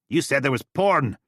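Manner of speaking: high, loud mock outrage; loud mock-indignant complaint. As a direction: complain loudly you were promised. Steele complains.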